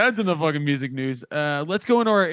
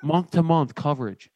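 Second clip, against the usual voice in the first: sponsor ad read. Acted. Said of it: "This is more of the off-the-cuff one".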